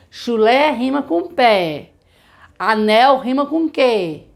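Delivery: slow teacher demo; slow example. Shown as a demonstration. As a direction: model the rhyme slowly. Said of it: "a gente dá o exemplo". (exemplo lento de professora)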